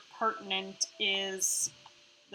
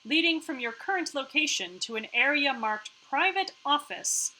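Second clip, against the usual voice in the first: measured scene-setting read, a touch higher; scene narration; 5 semitones higher than usual. A narrator's reading. Narrator guides players to the office, scene narration. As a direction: set the scene like a game narrator.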